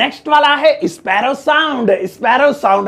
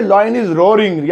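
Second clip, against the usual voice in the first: Lion is roaring, said very slowly with a falling end; slow model sentence; much slower than usual. Shown as a demonstration. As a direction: model the correct phrase slowly. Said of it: "तो हम कहेंगे". (सही वाक्य धीरे-धीरे)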